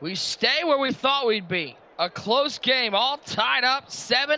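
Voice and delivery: measured, drawn-out broadcast delivery; announcer recap. Real, not acted. Announcer recapping a close game for viewers, broadcast voice. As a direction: sum up the score like a sportscaster.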